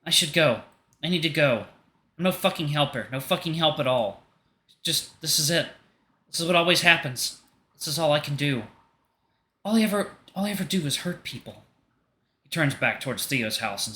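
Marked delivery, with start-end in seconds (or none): 0.0-11.6 higher, bitter despairing voice; self-loathing despair. Acted. Artemis blaming himself before leaving, higher despairing voice. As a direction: berate himself as he backs off.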